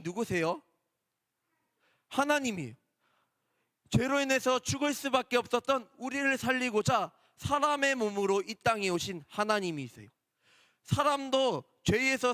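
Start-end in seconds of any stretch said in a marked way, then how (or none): none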